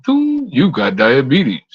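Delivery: slow, drawn-out machine announcement; lightly voiced talking toilet; robot toilet voice. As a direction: deliver it like a chirpy smart toilet. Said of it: "it's like".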